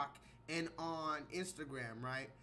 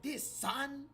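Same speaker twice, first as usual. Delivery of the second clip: a touch of swaggering slang, higher; imitating street slang; 6 semitones higher than usual. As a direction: toss it off like the teacher's cool kid. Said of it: "how to talk like".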